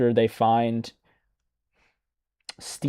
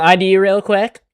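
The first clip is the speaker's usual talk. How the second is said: customer service voice; 6 semitones higher, 4 dB louder than usual. Retold or imitated. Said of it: "why does he kind of have a customer service voice".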